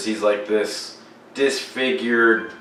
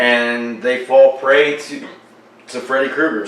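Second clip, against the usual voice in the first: talking through hiccups; words broken by hiccups; 2 semitones higher than usual. Real, not acted. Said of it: "Sorry, I got the hiccups".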